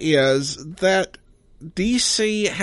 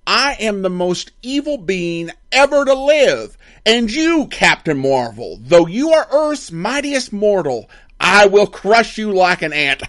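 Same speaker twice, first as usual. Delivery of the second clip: louder, higher villain boast; Mister Mime, evil emperor; 5 semitones higher, 6 dB louder than usual. Retold or imitated. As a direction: boom it out like a space tyrant.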